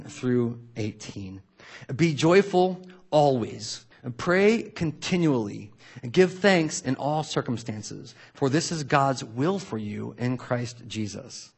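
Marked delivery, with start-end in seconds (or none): 2.0-11.5 slow, solemn reading of the verse; scripture reading. Shown as a demonstration. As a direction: read each line slowly and weightily. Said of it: "So here's the word".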